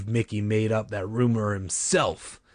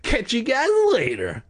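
calling after; 13 semitones higher, 3 dB louder than usual. A narrator's reading. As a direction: holler after fleeing kids. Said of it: "Joey called after them".

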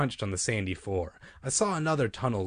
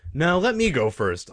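tio a interromper; 7 semitones higher, 5 dB louder than usual. A narrator's reading. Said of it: "Uncle Ben said, raising a hand to stop me".

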